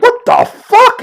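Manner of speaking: muffled by a gag. Retold or imitated. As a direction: shout it through a gag. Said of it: "in muffled voice".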